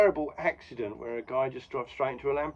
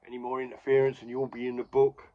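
angry ref; 3 semitones higher, 3 dB louder than usual. Retold or imitated. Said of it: "The ref's very angry".

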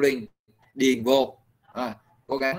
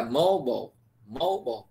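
MOBILE with the first syllable stressed and long; stressed word demo. Shown as a demonstration. Teacher explains word stress to students, stressed demo. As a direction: lean on MO in "mobile", let the rest fall. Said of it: "nó nhấn mà ha".

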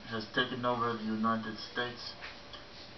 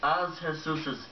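grand proclamation; 6 semitones higher than usual. Acted. Repeated pompous proclamation.

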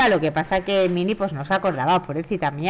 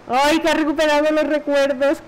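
delighted; 8 semitones higher than usual. Real, not acted. Player cheers at the reunion.

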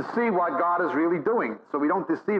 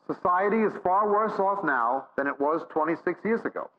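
normal talking voice

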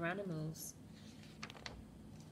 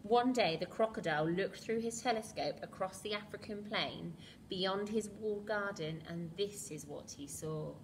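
put-on lively read-aloud to children; storybook reading; 4 dB louder than usual. A narrator's reading. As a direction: read it like a bedtime picture book. Reads picture book to children.

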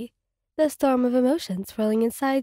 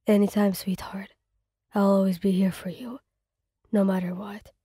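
lower, hushed and loving; tender whisper; 4 semitones lower than usual. Acted. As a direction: boyfriend reassuring sweetheart in a tender hush. Tender reassurance after earthquake.

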